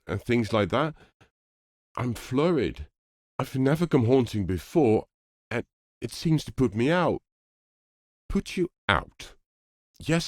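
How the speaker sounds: a lightly voiced nervous young ghost pleading; flurried young ghost.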